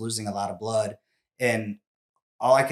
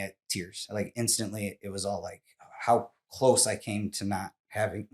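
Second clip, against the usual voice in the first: choked up. Real, not acted. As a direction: struggle to get through the memory. Tears recalled, listener says it's all right.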